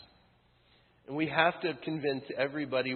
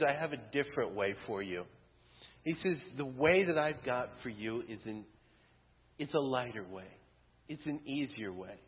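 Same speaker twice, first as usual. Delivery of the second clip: gentle reassurance; 2 semitones lower, 5 dB quieter than usual. Retold or imitated. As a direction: reassure them there's an easier way. Jesus offering a lighter way.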